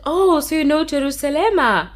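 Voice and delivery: high, loud, eager question; excited student. Retold or imitated. Online student quizzing her South African teacher, excitedly. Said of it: "She's like".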